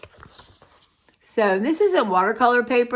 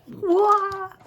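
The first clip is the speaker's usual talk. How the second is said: surprised what; 13 semitones higher than usual. Retold or imitated. Dormant energy waking up.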